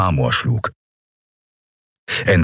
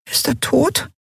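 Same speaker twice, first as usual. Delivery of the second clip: tiny, much higher squeak; squeaky. Acted. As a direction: peep it like a tiny fairy. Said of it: "piepste Nelen". (piepsend hoch)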